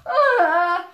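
short loud acted cry; acted scream. Being shot at with screws, loud cry. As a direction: cry out loudly as if under fire.

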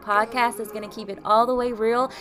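bright, punchy host intro over a music bed; upbeat podcast intro. Acted. Host welcoming listeners to her podcast, upbeat intro read. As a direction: hype the listener up to tune in.

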